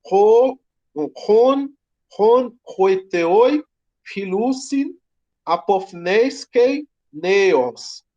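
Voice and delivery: Greek recited slowly, each syllable drawn out; "hoiteoi filusin apofneiskei neos" sounded out slowly with rising ends; Greek read aloud. Shown as a demonstration. Teacher reading Greek proverb to class, slow and careful. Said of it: "ele diz".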